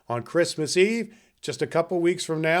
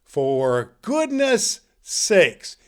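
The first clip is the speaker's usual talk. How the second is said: louder, with for goodness sakes drawn out very slowly; Santa catchphrase; 5 dB louder, much slower than usual. Acted. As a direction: deliver the signature line big and slow. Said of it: "Santa Claus says".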